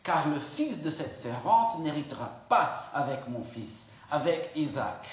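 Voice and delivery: a stern wife demanding he send them away; harsh reading. Shown as a demonstration. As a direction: bark the order at Abraham, unhurried. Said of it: "pardonne-moi mon intonation de voix".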